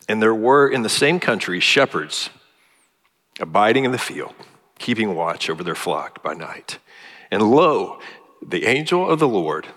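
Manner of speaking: a touch of Linus reciting Luke, building to the angel; heartfelt reading of the angel's news; scripture recitation. Retold or imitated. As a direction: recite the shepherds passage with rising conviction.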